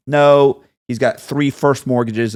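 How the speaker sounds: loud, slowed protest from the bank man; retold scream. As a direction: play the bank man shouting through the phone. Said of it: "he's screaming on the phone".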